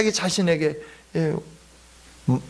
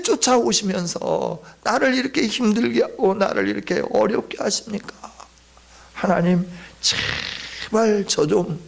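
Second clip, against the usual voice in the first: pleading prayer; 2 semitones higher than usual. Acted. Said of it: "기도하는 겁니다".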